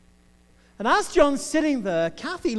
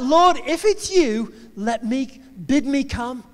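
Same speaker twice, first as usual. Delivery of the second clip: Peter calling out, raised and louder at first; acted-out yell across the water, easing off; 2 semitones higher, 4 dB louder, slower than usual. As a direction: call out to the Lord from afar. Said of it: "Peter yells out".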